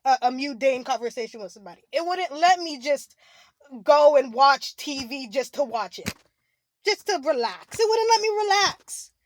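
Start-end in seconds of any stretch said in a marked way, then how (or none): 1.9-9.1 crying. Real, not acted. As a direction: push the words out through a sob. Crying while describing the fear.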